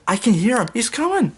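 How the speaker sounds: a tin man spotting the train. A narrator's reading. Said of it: "Tin Man said".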